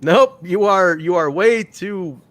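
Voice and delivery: bar the door like a fussy bouncer; a hint of a bouncer waving off heavy wrestlers; mock bouncer. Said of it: "It's almost like".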